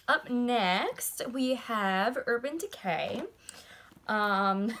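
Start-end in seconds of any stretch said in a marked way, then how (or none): 0.1-3.2 slow, drawn-out game-show intro; showy announcer. Real, not acted. Vlogger introducing the next brand to viewers, mock announcer. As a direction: announce the next palette like a host. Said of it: "I don't know why I said it like that".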